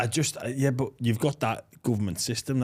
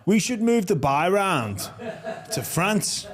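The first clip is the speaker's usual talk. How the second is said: giggling through a cheeky idea; laughing proposal to mate; 7 semitones higher, slower than usual. Real, not acted. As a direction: laugh it out, high and excited. Laughing pitch to move to France.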